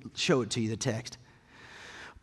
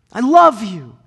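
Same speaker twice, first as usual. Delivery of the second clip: high, loud, in one flowing phrase; said once, tenderly and firmly; God speaking; 8 semitones higher, 14 dB louder than usual. Acted. God to humanity, one steady loving phrase. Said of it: "God made an emphatic stamp".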